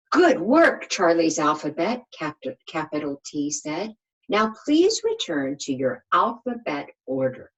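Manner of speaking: lightly voiced bossy leader letter; a hint of a proud teacher praising; capital T. Capital T praising the little letters, lightly voiced.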